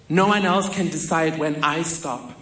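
shaky, defiant voice. Retold or imitated. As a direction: voice shaking but resolute. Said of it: "with a shaky voice".

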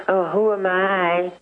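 high, slow simpering mock humility; mock humble priest. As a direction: whine it like a timid cleric. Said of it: "just say".

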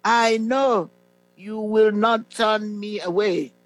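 slow, measured prayer recital with long pauses. Real, not acted. Preacher leading listeners to repeat a salvation prayer after him, slowly. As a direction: lead the prayer phrase by phrase, drawn out. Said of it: "I'm going to say it slowly".

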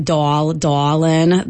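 "doll, dollin" with a rounded "aw" vowel; Yat aw vowel. Shown as a demonstration. Linguist giving examples of a Yat feature, "aw" in "doll, dollin". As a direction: give "doll, dollin" the New Orleans "aw". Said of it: "vowel that you will hear in".

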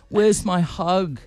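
slow, lightly voiced needy bloke; mocking bloke voice. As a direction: drag it out like a creepy guy. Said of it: "but a bloke".

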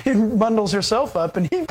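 usual speaking voice

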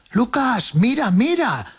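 very high-pitched voiced small child calling out; child's excited cry. A narrator's reading. Small child calls Lucas to look, high excited cry. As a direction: cry out in a high little child's voice, stretching the words.

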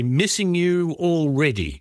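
high, drawn-out mock call; mock shouted farewell. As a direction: imitate an over-loud, stretched-out farewell. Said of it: "The Countess shouted loudly".

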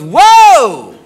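high, loud mock cry of surprise; startled whoa. Girlfriend reacting to new underwear, mock startled. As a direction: imitate her reacting with a big drawn-out whoa. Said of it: "And she goes".

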